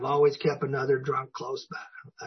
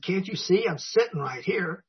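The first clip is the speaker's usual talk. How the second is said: mild mock indignation, pitch raised; retold indignation; 4 semitones higher than usual. Husband answering wife's complaint, mildly indignant. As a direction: protest with a touch of exasperation. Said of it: "I'd get so mad".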